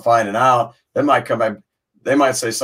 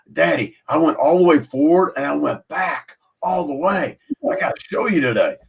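lightly voiced excited kid, lilting and higher; a proud little boy reporting to his dad, lightly imitated; eight-year-old son; 5 semitones higher than usual. Dad retells his son's monkey bars feat, lightly voiced child. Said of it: "he's eight year old".

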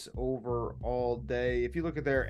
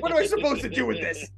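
laughing mock question; 11 semitones higher, 3 dB louder, faster than usual. Mocking the manager's reaction.

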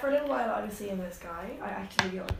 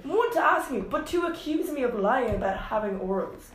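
raised, outraged retort that eases off; indignant disbelief; 3 semitones higher, 4 dB louder than usual. Retold or imitated. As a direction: count off the offences, affronted. Continuing her indignant comeback.

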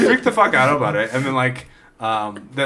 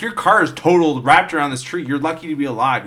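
mock exasperated scolding; 3 semitones higher than usual. Police scolding driver in retold scene.

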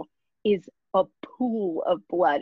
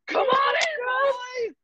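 high, hammed-up come-on; mock seductive call; much slower than usual. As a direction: croon it high and over the top. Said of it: "just like".

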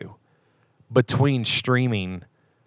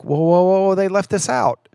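higher pitched, half-joking alarm at a missing scene; pitched-up playful outrage; mock dismay; 8 semitones higher than usual. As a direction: act out a fan noticing a cut scene. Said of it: "you're like".

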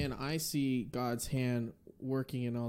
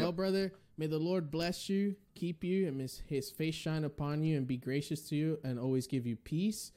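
raised, earnest blessing over the guest; pastoral blessing; 3 semitones higher than usual. Real, not acted. Host blessing his guest before signing off, earnest and raised. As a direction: bless him like a pastor, voice lifted. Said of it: "that is the pastoral blessing".

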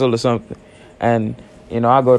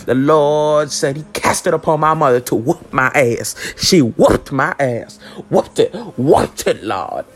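preacher voice; 3 semitones higher, slower than usual. Pretend. Preacher-like lament on whooping.

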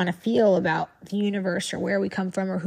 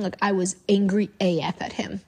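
hushed whisper, no voice at all. Real, not acted. Telling her followers how angry she was, whispered. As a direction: lean in and whisper the confession.

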